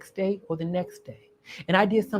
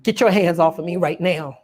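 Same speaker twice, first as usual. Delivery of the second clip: firm, raised-voice order; retold loud demand; 5 dB louder than usual. Woman telling man to let go, loud demand. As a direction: demand it loudly, recounting the moment. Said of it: "talk really loud".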